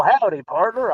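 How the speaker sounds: understated Texan accent, barely put on; light Texan accent. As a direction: toss off a quick Texan howdy. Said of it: "if you want me to do a Texan accent".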